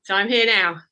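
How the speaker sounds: breathless, still catching breath; puffing between words. Real, not acted. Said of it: "sorry, I'm a bit out of breath".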